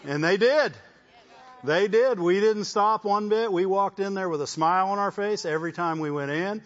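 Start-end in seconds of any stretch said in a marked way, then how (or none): 0.1-5.0 triumphant declaration. Real, not acted.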